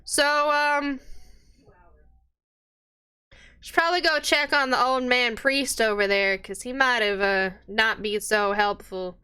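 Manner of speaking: barmaid voice. Acted.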